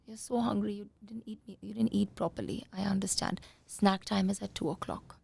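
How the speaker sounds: soft understanding parent voice; gentle sympathy. Shown as a demonstration. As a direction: kind but firm, softly. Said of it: "you sit down and say".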